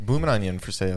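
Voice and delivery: put-on Australian vendor call; mock Australian accent. Joking about a themed restaurant dish, mock Australian. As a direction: sell it in a fake Australian accent. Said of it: "That was Australia".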